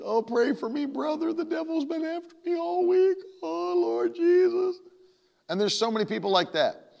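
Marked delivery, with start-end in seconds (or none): 0.0-4.8 hammed-up wail of a needy believer; whiny immature believer. Immature Christian begging a brother for prayer, high mock wail. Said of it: "Immaturity says, "I can only see my problems".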